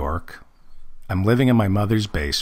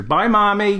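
put-on childish bye; 11 semitones higher than usual. Saying goodbye to his mommy.

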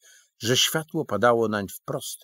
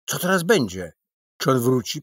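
fretful; 3 semitones higher, 7 dB louder than usual. A narrator's reading. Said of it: "denerwował się jak przedszkolak".

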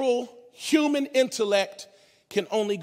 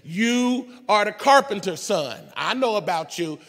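indignant rant. Retold or imitated. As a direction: play the offended fisherman defending his turf. Simon rants at Jesus.

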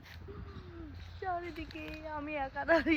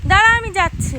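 calling out; 8 semitones higher, 18 dB louder than usual. Real, not acted. Calling out to someone.

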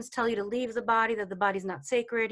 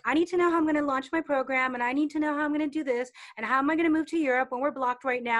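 anxious student; 4 semitones higher, 4 dB louder, faster than usual. Retold or imitated. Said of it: "some students who are like".

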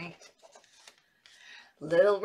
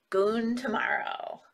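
whisper; 7 dB quieter, slower than usual. Acted.

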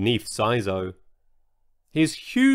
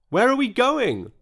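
wailed; 9 semitones higher than usual. A narrator's reading. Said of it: "wailed George".

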